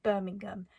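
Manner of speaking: "Birmingham" said with a hard G after the ng. Shown as a demonstration. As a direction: let the G in "Birmingham" be clearly heard. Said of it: "I say it with a very hard G".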